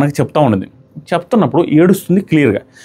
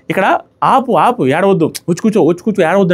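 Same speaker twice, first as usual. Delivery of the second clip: higher-pitched, insistent retold plea; imitated urgent coaxing; 5 semitones higher than usual. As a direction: mimic someone urging a crier to stop. Retelling someone told to stop crying.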